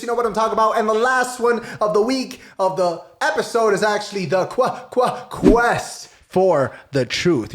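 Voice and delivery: high announcer intro, slowing at the end; big host-style segment intro; show announcer. Acted.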